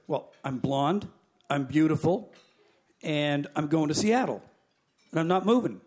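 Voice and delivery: lightly acted stubborn passenger, point by point; self-satisfied refusal. Blonde passenger refusing the stewardess, deliberate and unbudging.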